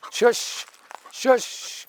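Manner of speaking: high breathy shush at a dog. Real, not acted. Quieting an excited dog.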